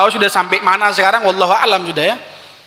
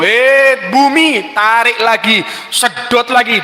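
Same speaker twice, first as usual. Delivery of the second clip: angry command; 3 semitones higher, slower than usual. Acted. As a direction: drive the earth on in anger. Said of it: "wis kadung ngamuk".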